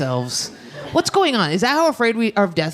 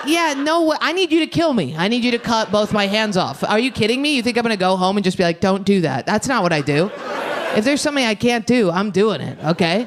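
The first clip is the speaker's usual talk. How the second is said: excited, higher retelling of her protest; retelling her outburst to the doctor, excited and higher; high-pitched retold rant; 5 semitones higher than usual. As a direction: rant back at the doctor, half laughing.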